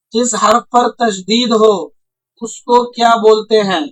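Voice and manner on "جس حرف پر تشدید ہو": slow, deliberate reading. Shown as a demonstration. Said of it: "کیا پوچھا جا رہا آپ سے؟".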